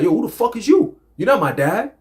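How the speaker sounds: mock angry outburst, pitched high; angry retort. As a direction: snap back at a stranger scolding you, half-acted. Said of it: "You get angry".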